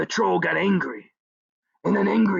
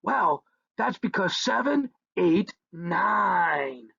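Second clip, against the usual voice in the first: gleeful answer to the troll; punchline delivery; slower than usual. Acted. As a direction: land the joke with glee. Punchline of the riddle.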